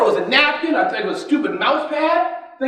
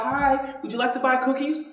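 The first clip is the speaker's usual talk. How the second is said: put-on a lightly raised, sweet Girl Scout pitch; cheerful Girl Scout; 3 semitones higher, 3 dB quieter than usual. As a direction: offer the cookies politely, a bit higher. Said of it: "You see the girls going down the block".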